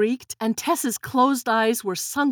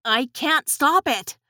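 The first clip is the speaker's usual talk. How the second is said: exclaiming; 4 semitones higher than usual. Acted.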